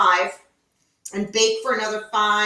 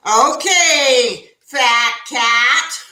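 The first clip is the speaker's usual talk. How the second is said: talking to her cat; 5 dB louder, much slower than usual. Retold or imitated. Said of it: "I was speaking to Maze like".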